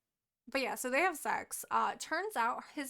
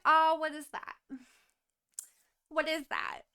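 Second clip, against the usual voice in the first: higher, louder, delighted cooing; gushing wonder; 4 semitones higher, 5 dB louder than usual. Retold or imitated. Healer gushing over the marks on her hands, higher and delighted. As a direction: admire something pretty.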